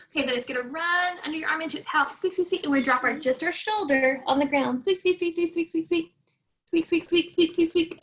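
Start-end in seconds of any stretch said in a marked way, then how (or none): 2.2-2.6 high squeaky mouse voice; playful high mouse squeaks for the kids. Shown as a demonstration. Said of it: "can you make it squeak". 4.8-8.0 high squeaky mouse voice; playful high mouse squeaks for the kids. Shown as a demonstration. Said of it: "can you make it squeak".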